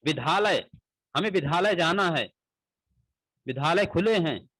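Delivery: विद्यालय said with ध instead of द; common wrong pronunciation. Shown as a demonstration. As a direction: say विद्यालय with a breathy dh. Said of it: "ऐसे उच्चारण, अक्सर सुनने में आते हैं". (द की जगह ध बोलकर विद्यालय)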